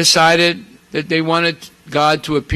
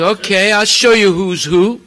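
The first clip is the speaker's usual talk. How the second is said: raised, a bit louder menacing vow; retold threat, pitched up; angry threat; 4 semitones higher, 4 dB louder than usual. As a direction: Shiva seizing his trident to punish. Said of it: "He gets so angry".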